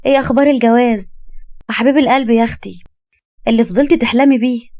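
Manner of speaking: nosy, lightly hammed-up teasing; teasing cousin. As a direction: prod for gossip with playful mockery. Cousin teases about marriage and beloved.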